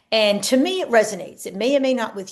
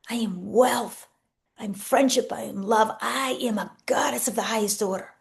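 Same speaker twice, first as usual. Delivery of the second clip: affirmations. Shown as a demonstration. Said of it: "program in".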